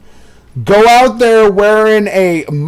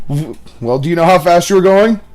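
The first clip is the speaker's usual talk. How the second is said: stammering cop; faster than usual. Retold or imitated. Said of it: "they're like, "Officer".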